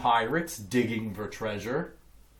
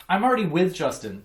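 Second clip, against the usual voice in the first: dismissive; 5 semitones higher, 6 dB louder, faster than usual. A narrator's reading. Emilio brushes Brian off.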